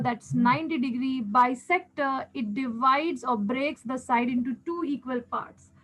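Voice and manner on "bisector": bisector said slowly, each syllable given weight; teacher slows down to stress a key word. Shown as a demonstration. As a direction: draw out bisector to drive the term home. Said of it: "I am emphasizing on the words".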